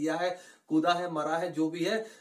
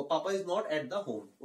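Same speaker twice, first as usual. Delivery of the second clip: slow but joined-up sentence; slow, smooth model line; much slower than usual. Shown as a demonstration. Teacher repeating the sentence slowly for students. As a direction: say the whole line slowly in one go. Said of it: "धीरे धीरे बोलना है आपको".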